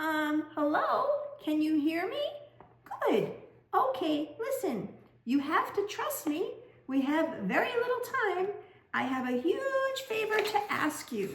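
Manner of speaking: thin, unsure loudspeaker voice. Narrating to a listener, voicing a stranger over the loudspeakers in a tinny, hesitant voice. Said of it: "tinny voice".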